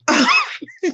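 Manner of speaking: laughing out of nowhere; high-pitched gasp of laughter; high breathless laugh. Real, not acted. Laughing fit at viewer comments.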